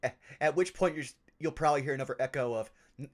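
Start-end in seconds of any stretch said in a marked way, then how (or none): 3.0-3.1 sudden high, loud telling-off; loud, startled reprimand; sharp scolding shout. Acted. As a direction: shout at the echo to quit. Scolds the echo in character.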